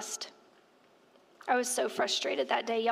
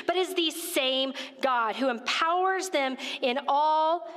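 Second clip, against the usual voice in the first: scripture reading. Real, not acted. Reading First Corinthians aloud to the church, measured. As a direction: read it with weight, line by line.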